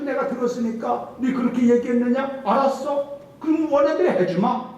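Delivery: a preacher's high, pointed impression of God; God's warning. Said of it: "말한 대로 하나님께서".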